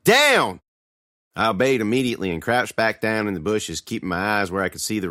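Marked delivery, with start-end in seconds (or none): 0.0-0.6 high, forceful shouted order; yell. A narrator's reading. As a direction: yell it slowly enough to be obeyed. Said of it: "Lee yelled".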